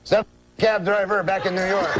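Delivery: put-on punchline in French-Canadian accent; comic French-Canadian uncle revealing the answer; Jean-Luc. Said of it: "That's how he talks".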